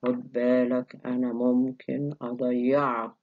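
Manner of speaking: mock menace in a low, level voice; acted low warning; low-pitched threat. Shown as a demonstration. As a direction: threaten to scare someone, keeping pitch down. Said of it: "لما أكون أنا بهدد حد بقول له".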